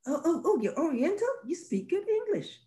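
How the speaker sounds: high, sing-song patronizing voice; mocking condescension. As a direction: play a patronizing onlooker praising. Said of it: "mocking patronizing bystander again".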